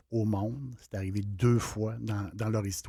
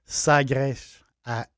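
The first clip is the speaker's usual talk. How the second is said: Sagres in a put-on Portuguese accent, ending in sh; Portuguese "Sagresh". Shown as a demonstration. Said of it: "je prends mon accent portugais".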